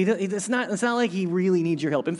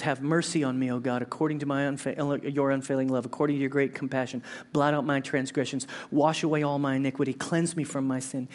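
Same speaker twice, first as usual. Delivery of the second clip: lower, measured psalm reading; scripture reading; 3 semitones lower than usual. Acted. Pastor reading David's psalm to the church. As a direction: read the psalm with reverence.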